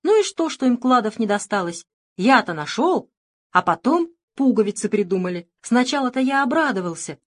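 loud whiny shout. Acted. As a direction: yell and complain like a spoiled boy. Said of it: "кричал".

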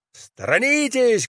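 high-pitched warning call; high cry. A narrator's reading. Vaska warns the cow, crying out high. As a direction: cry out high, without much volume. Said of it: "крикнул Васька".

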